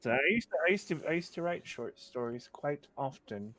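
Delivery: lightly put-on cultured voice; trying to sound sophisticated. Writer recalling short stories to the hosts, mock sophisticated. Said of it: "I was trying to sound sophisticated".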